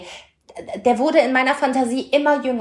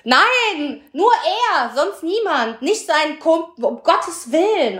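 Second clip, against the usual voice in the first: emphatic denial; 6 semitones higher, slower than usual. Real, not acted. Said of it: "insisting not his friend".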